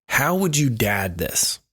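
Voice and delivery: slow breathy title reveal; segment title announcement. Acted. Host announcing the new segment's name, slow and hushed.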